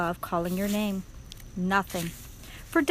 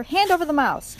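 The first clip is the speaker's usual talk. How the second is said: high, raised rat voice; shouted demand; 6 semitones higher, 4 dB louder than usual. A narrator's reading. Second hungry rat demanding the mouse, shouting. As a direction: call for the prey. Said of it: "shouted another".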